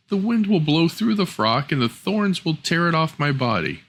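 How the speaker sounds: put-on high young girl, pleading; girl's voice. Girl begs stepmother not to send her, high and plaintive. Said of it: "said the girl".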